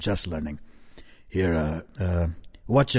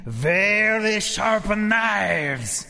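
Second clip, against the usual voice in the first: high, soft, squeaky character; 12 semitones higher, 5 dB quieter than usual. Acted. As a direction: squeak it out like a nervous performer. S1 voices Mateo.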